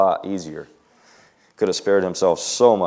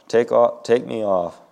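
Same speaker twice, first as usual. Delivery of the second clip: mild frightened plea, slightly higher; cried; 4 semitones higher than usual. Acted. Diana pleads with the driver, a touch of fear. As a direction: beg to be lifted off, lightly acted. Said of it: "she cried".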